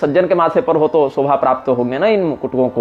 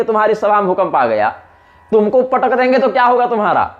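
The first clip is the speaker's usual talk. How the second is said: Angad's rebuke. Acted. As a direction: berate the shameless king, rising. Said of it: "फिर क्रोधित हुए, बोले".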